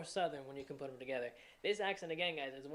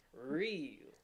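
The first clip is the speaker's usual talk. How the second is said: Southern on-glide demo; 3 semitones lower than usual. Shown as a demonstration. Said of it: "but it's gonna be real".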